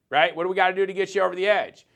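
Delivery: mock upbeat salesman on the phone; enthusiastic sales call. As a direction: sell it like a friendly rep calling a client. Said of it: "follow up enthusiastically".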